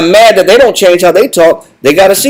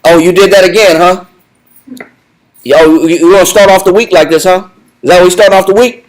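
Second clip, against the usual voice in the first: scolding parent. Retold or imitated. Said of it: "this voice box of".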